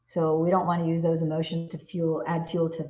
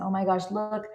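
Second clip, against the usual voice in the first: excited news to a friend. Pretend. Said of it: "having a conversation with your best friend".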